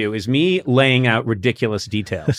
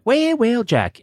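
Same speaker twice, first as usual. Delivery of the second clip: snide greeting; 9 semitones higher, slower than usual. Retold or imitated. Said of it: "I'd be like".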